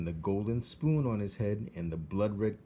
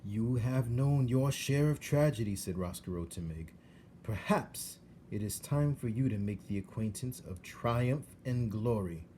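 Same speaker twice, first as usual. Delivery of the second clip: scheming suave rat; 3 semitones higher than usual. Acted. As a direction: tempt her with oily courtesy. Roscoe tempts Meg.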